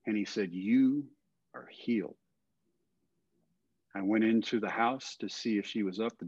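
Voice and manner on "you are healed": comforting voice. Retold or imitated. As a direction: soothe him with the words. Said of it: "the comfort and warmth I had from this voice".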